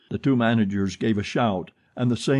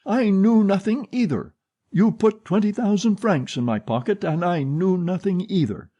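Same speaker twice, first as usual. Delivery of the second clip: swaggering; 9 semitones higher than usual. Acted. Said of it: "assuming a swaggering air".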